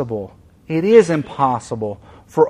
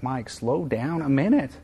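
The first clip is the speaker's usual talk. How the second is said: gracious and kind; 3 semitones higher than usual. Retold or imitated. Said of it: "He's so gracious and kind".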